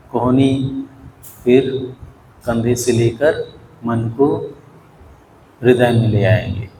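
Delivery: measured body-scan guidance, phrase by phrase; even, unhurried meditation voice; guided meditation. Real, not acted.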